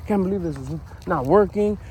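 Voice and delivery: lightly acted grumpy rant; grumpy complaining. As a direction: imitate yourself griping about everything. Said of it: "be grumpy and like".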